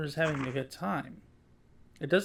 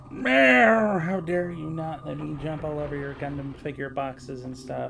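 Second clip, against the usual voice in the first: voicing the cat; 2 semitones lower, 5 dB louder than usual. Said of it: "whapping me in the face with his tail like".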